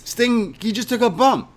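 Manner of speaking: high, amazed cry of the name; stunned disbelief. Real, not acted. Fan to friend, shocked the injured wrestler still fights. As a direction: gasp it out in disbelief.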